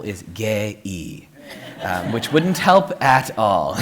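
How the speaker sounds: "gay-y" in a Korean accent, drawn out. Shown as a demonstration. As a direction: stretch gay into two syllables Korean-style. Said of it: "to give you another example".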